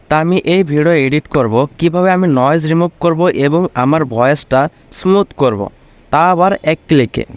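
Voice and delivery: noise removed, smoothed voice; clean enhanced audio. Real, not acted. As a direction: clean studio-like voice. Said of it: "background noise ছিল না বললেই চলে".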